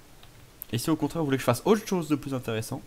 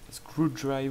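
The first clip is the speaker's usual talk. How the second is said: badly overdone English accent; clumsy, exaggerated English pronunciation; much slower than usual. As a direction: lay the English accent on too thick. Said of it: "c'était avec un accent dégueulasse".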